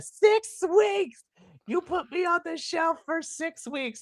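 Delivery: put-on very high-pitched, furious shout. Recapping a show moment, retelling Macklin yelling at Santana. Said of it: "he's yelling at Santana".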